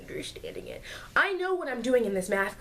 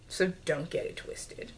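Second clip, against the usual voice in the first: unvoiced, softer aside; whispered aside; 5 semitones lower, 7 dB quieter than usual. Real, not acted. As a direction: whisper it behind your hand. Whispered aside after "I'm not stupid.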